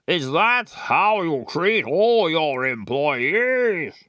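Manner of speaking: a slow, lightly posh indignant father; posh dad. Acted. Player trying out a posh voice for the dad. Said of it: "was he posh?".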